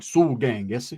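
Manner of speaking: matter-of-fact and mellow; just plainly confirming it; casual. Retold or imitated. Big dude answering the teller casually: low matter-of-fact reply. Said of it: "No, he was like".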